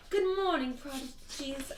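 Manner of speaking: put-on high British-accented announcer. Principal greeting her prodigies over morning announcements, British accent. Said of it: "I picture her with a British accent".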